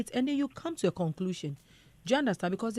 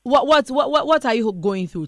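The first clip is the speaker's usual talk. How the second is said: urgent questioning; 4 semitones higher, 8 dB louder than usual. Real, not acted.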